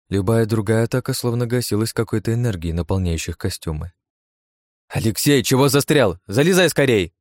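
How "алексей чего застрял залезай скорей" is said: higher and louder, impatient; hurrying call. Acted. Anna to Aleksey from the car: impatient loud call. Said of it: "поторапливала Анна".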